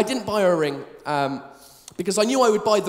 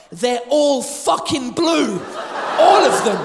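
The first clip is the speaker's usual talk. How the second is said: slow, drawn-out dismay, then a louder laughing burst; dismayed realization; 4 dB louder, slower than usual. Retold or imitated. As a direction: spell out the horror slowly. Panic in supermarket aisle.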